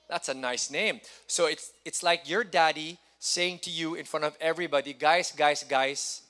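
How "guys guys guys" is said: loud call for attention, like a proud father; a dad shouting to the room about his son. Pretend. Voicing a dad's proud announcement.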